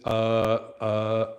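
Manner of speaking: mock stalling, drawn-out fillers; imitating hesitant speaker. Teacher mimicking a football player speaking, mock hesitation. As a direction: stall on each filler like someone lost for words. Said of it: "if you hear a football player".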